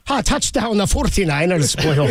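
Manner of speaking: lightly put-on Irish brogue, slow at the end; a hint of Irish cheer, drawn out. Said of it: "Irish is more with the brogue".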